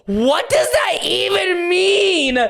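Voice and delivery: high, slow baffled question. Real, not acted. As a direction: ask it in total confusion. Baffled by poster.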